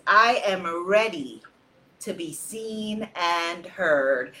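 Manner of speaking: slow, deliberate affirmation. Shown as a demonstration. Leader reading the affirmation slowly to the circle. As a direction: state it slowly like a vow. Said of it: "her affirmation is".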